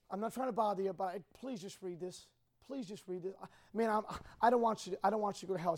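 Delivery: low, hushed, hesitant appeal to a parent; gentle plea. Acted. Teen handing Dad a tract, gently pleading. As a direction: plead softly and low, stumbling over the words.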